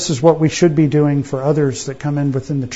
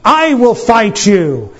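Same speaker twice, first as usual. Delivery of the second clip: put-on slow, a bit higher brave little boy; little Dave; 4 semitones higher, slower than usual. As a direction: plant your feet and accept the challenge. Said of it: "And he says".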